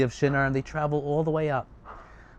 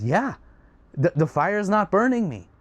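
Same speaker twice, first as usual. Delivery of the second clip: higher, amazed reply with a small stumble; shocked; 6 semitones higher than usual. Acted. Avram answering from inside the fire, shocked. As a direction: call back in disbelief. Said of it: "shocked as every-, as everyone else".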